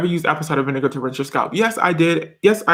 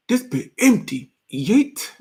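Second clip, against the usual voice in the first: higher-pitched meme quote with a tossed-off ending; Vine imitation; 6 semitones higher, slower than usual. Quoting a Vine for viewers, in a playful higher imitation. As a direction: parrot a silly viral clip.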